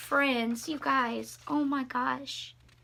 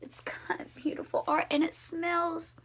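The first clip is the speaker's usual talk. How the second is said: whisper; 3 semitones higher, 4 dB quieter than usual. Real, not acted. Admiring the old Bible.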